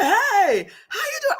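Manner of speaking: high, laughing imitation of ex; mock casual ex. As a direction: toss off a teasing hello. Retold ex's casual greeting.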